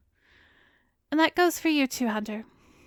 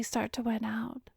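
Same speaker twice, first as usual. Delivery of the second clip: whisper; 6 dB quieter than usual. Acted. Hypnotist murmuring to subject.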